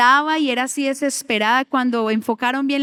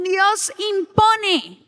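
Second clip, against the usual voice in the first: mocking youth; 7 semitones higher, much slower than usual. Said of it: "los jóvenes dicen".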